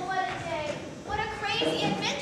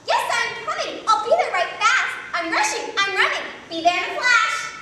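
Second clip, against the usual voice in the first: louder, breathless hurry; rushing excited; 3 semitones higher, 6 dB louder than usual. Acted. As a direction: talk like you're running. Mother rushing over the phone.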